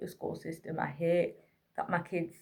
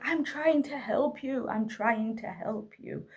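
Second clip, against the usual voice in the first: higher-pitched, drawn-out pleading; retold plea to a struggling child; slow, strained-patience pleading; 4 semitones higher, slower than usual.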